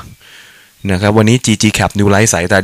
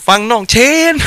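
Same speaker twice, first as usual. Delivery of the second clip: put-on playful Suphanburi accent, much higher, with the tone rising at the end; hammed-up Suphanburi accent; 13 semitones higher than usual. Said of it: "พูดภาษาสำเนียงสุพรรณบ้านเรา". (สำเนียงสุพรรณแบบล้อเลียน เสียงสูงขึ้นมาก)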